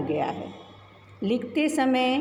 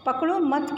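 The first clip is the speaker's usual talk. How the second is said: पकड़ो मत as one phrase, pitched up; higher पकड़ो, break after मत; pause after मत; 4 semitones higher than usual. Shown as a demonstration. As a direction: say पकड़ो मत together and stop after मत. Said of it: "के बाद हम रुकते हैं".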